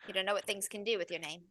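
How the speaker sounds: put-on soft warning in a light Irish accent; hushed, amateur Irish brogue. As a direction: quietly caution them as an Irish child. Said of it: "heavy Irish accent".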